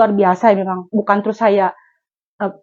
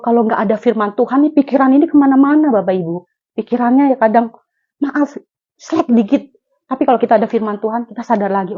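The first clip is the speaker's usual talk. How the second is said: normal talking voice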